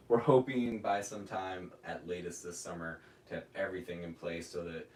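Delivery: winded, talking short of breath. Real, not acted. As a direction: speak while you're out of breath. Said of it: "I'm, like, out of breath too".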